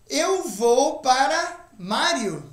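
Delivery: slow, jokey wrong translation; mock wrong translation. Shown as a demonstration. Teacher jokingly shows the wrong literal translation. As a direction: play the literal mistake for a laugh. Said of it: "Não é isso".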